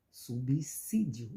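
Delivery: "Subsídio" slowly, syllables apart, weight on si; stress on si. Shown as a demonstration. Teacher showing students the most intense syllable, stress on si. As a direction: stretch out "Subsídio", leaning on si. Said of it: "que pronunciamos com mais intensidade".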